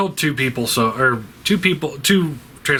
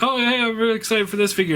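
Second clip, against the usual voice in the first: mock excited fan; 10 semitones higher, faster than usual. Mock eager fan post.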